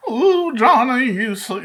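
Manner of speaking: abandoned attempt at a redneck drawl; half-hearted redneck voice. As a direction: start a bad redneck impression, then falter. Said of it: "I can't do a redneck voice".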